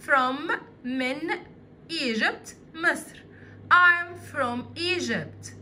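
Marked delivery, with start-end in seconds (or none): 3.7-5.5 very slow, every word separate; teacher modelling the full sentence slowly; slow model sentence. Shown as a demonstration. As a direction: say it very slowly for the kids to copy. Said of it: "هنا هقول إيه؟".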